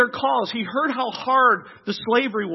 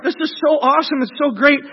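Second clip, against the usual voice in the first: higher, louder enthusiasm; acted excitement; 3 semitones higher, 4 dB louder than usual. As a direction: rave like one of the thrilled crowd. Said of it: "'cause it's like".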